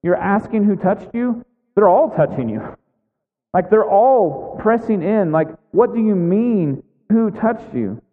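mild acted disbelief, stressing key words; Peter, mildly incredulous. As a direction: question it as if it's absurd. Peter voiced, baffled by Jesus' question.

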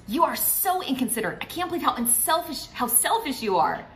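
high, mildly loud blaming tone; mock accusation. Wife accusing husband of selfishness, mock high accusing voice. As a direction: play the wife who accuses, a touch hammed-up. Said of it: "Avoid all those global accusations".

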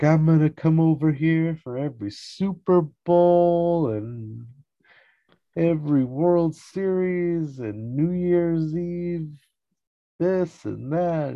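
high, hammed-up gushing; mock delight. Jerry eyeing the Drakes' TV, hammed-up delight. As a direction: relish each event, stretching the later words out slowly.

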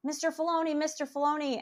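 high-pitched mock calling out; imitated yelling. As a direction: mimic fans calling after someone. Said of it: "all the guys behind him are yelling".

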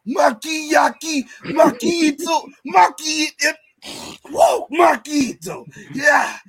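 loud hyped wrestling promo shout; impersonating friend's promo. Retold or imitated. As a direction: do a loud promo impression of him. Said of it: "how you do my impersonation".

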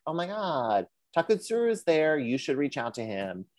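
high-pitched gushing tip-off; mock excitement. Professor recommending his former student, mock-excited. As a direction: gush as the professor with a big discovery.

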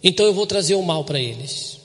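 loud, insistent divine warning; voicing God. Pastor gives God's words to the listeners, loudly. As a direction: speak as God who was ignored. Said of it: "Deus tá falando".

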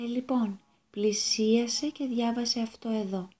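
put-on a small boy calmly in charge; lightly voiced little Jesus. (ο μικρός Ιησούς ήρεμα, σαν δάσκαλος, πιο σιγανά)

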